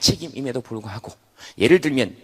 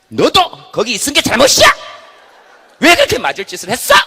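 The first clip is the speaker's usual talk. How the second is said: loud, higher, blaming shout; accusing yell; 9 semitones higher, 12 dB louder than usual. Acted. Head yells at hurt left hand, accusing. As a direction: scream the blame at the victim.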